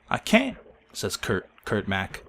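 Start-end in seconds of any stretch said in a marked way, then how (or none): 0.1-0.6 put-on high whiny kid. Injured kid protesting.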